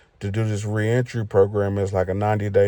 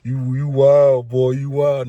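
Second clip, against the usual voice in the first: higher, drawn-out amused teasing; amused Suge; 4 semitones higher, 4 dB louder than usual. Retold or imitated. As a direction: stretch out 'you wild' grinning at him.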